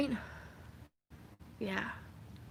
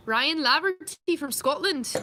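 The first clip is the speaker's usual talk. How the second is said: Scottish accent; 6 semitones higher, 5 dB louder than usual. Shown as a demonstration. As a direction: read the name slowly and louder in a Scottish accent. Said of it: "Is it a Scottish accent?".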